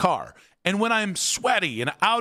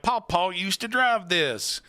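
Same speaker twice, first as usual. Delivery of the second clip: mock Southern accent; 3 semitones higher, slower than usual. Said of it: "I don't know why they have a Southern accent".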